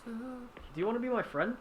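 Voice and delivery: slow, sugary ask to be friends; sweet friendly plea. Acted. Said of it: "do one of those".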